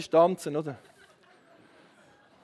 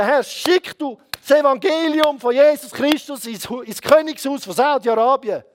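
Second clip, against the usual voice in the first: forceful, raised petition to God; fervent prayer; 5 semitones higher, 4 dB louder than usual. Retold or imitated. Preacher re-enacting his prayer night petition, fervently. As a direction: pray it out insistently.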